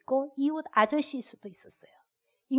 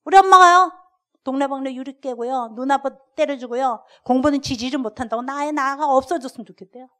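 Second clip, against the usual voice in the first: put-on blurted child voice; 7 dB louder than usual. Child reports mother's words.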